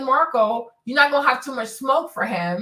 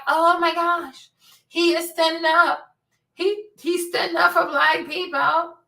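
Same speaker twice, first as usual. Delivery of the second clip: higher, slow gushing fan voice; mock gushing; 6 semitones higher than usual. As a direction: gush like a naive fan, slowly. Mocking gushing fans.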